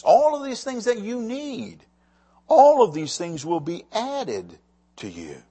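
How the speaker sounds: steady preaching read that stresses the key words; scripture reading. Acted. Preacher reading Jesus' words to his church, in a steady preaching voice. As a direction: carry the passage to the room. Reads Matthew passage aloud.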